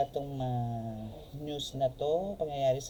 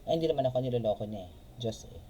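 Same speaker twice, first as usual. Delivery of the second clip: quick, brushing-off excuse, rattled off fast; fast mock self-assured denial; dismissive excuse; much faster than usual. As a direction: shrug it off like it's nobody's business. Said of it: "yung sinasabi na".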